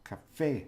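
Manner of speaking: "café" landing firmly on "fé"; stress on final syllable. Shown as a demonstration. Teacher correcting the wrong café, stress on final syllable. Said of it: "that syllable the stressed one".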